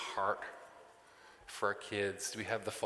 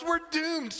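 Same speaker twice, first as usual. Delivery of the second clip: mock doom; 5 dB louder than usual. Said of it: "I'm stomping the house".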